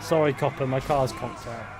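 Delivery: mock apology called out loudly; calling out. Player to a game policeman about the car, calling out. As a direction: call it over to the copper.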